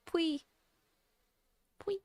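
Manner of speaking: "Pui" said softly as pwee; corrected pronunciation. Shown as a demonstration. Streamer practising the cute name, "Pui" said as pwee. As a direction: repeat "Pui" lightly, rhyming with we. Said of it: "it's pronounced like Pui".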